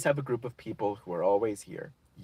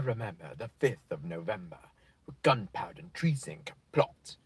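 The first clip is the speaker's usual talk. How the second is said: hushed recitation; 6 semitones lower, 4 dB quieter than usual. Pretend. Reciting V for Vendetta.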